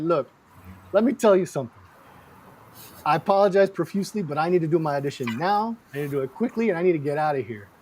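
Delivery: barge in and demand the audition; hammed-up urgent plea; mock urgent demand.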